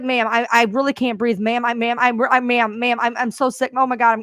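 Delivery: a hint of a terrified caller gasping out words; retold panicked plea. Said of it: "And she's crying".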